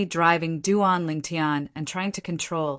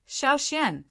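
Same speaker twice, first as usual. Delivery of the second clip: sharp, raised rebuke of a name; scolding call; 8 semitones higher than usual. Acted. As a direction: call her name out sternly. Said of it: "Yi Ting frowned and scolded".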